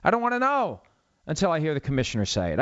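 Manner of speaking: high, exasperated cry of protest; mock fan outrage, high-pitched; exasperated outburst. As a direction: blurt it out in annoyance. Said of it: "It's like".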